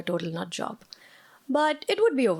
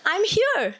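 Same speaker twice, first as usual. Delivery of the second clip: higher, louder booming reply from inside; booming call; 9 semitones higher, 5 dB louder than usual. Retold or imitated. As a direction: boom it out from behind a door. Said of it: "his voice boomed".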